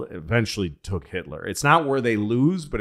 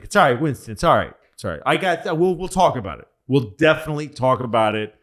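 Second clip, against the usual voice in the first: higher, louder mock reassurance; placating brush-off; 3 semitones higher, 4 dB louder, much faster than usual. Roosevelt putting off eager Winston, placating brush-off. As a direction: talk over them to calm them down. Acting FDR placating an insistent Churchill.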